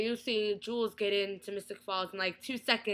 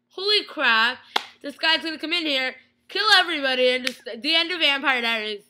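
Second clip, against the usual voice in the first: panicking; 3 semitones higher, 6 dB louder than usual. Retold or imitated. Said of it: "I'm like".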